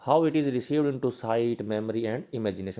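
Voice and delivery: reading notes aloud slowly and loudly, word by word; slow dictation. Shown as a demonstration. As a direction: dictate it so students can write it down.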